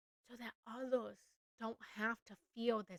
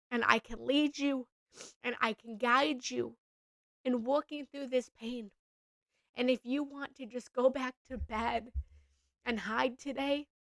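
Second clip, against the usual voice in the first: emotional, voice rising; 3 semitones higher, 6 dB louder than usual. Real, not acted. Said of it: "and getting emotional".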